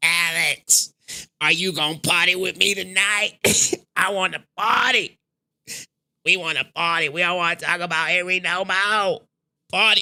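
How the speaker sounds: put-on gravelly, rough-edged raspy voice. Trying to do someone's voice, put-on raspy voice. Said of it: "he mess with them raspy ass voice ... let me see if I can do the voice".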